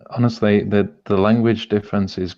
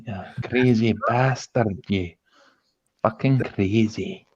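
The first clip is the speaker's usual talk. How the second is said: slower, easy Scottish accent; 4 dB quieter, slower than usual. Shown as a demonstration. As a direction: tail off the Scottish banter, drawn out. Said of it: "I can do Scottish".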